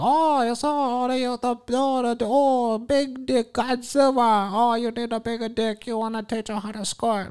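mock Asian accent in a soft falsetto; stereotyped Asian woman. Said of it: "she was like a fucking walking stereotype".

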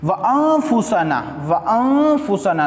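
very slow, stretched melodic recitation; slow Quranic chant with long vowels. Shown as a demonstration. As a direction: draw out every syllable like tilawat. Reciting word with ghunna.

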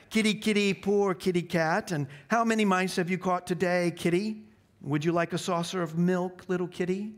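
high sing-song mockery; jeering taunt. A narrator's reading. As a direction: taunt him like a pet cat. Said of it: "jeering at him, saying things like".

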